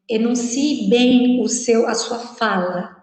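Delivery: slow, deliberate articulation; well enunciated. Shown as a demonstration. Teacher explaining "enunciate" to students, slow careful diction. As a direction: give each word its space, clearly enunciated. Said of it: "a gente fala enunciate".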